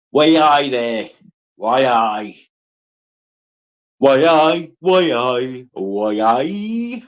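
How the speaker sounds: a rough try at a Geordie "why aye"; Geordie attempt. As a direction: say it like a Geordie, not quite landing it. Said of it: "I never understand this Geordie, Geordie lark".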